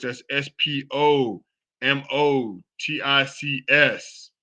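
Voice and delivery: letter by letter, "S P O M O T I C S" said slowly; slow, careful spelling of the show's name. Shown as a demonstration. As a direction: spell "S P O M O T I C S" out one letter at a time. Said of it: "That's Spomotics".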